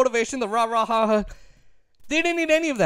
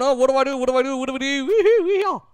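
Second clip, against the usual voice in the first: clueless coach; 5 semitones higher, much faster than usual. Retold or imitated. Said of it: "looking up at the scoreboard going".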